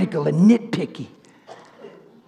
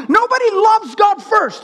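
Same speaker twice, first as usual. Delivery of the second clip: high-pitched, emphatic declaration; fervent preaching; 11 semitones higher than usual. Acted. Preacher stating whom nobody loves first, fervent preaching. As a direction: declare it high and forcefully, at normal pace. First take of repeated doctrine.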